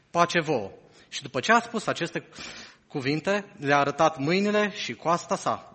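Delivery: measured, solemn Bible reading to the church; solemn public reading of scripture. Acted. Reads the Gospel passage aloud.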